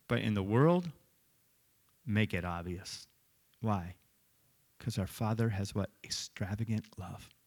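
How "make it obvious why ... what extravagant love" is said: hushed emphasis. Acted. Preacher drops voice for effect.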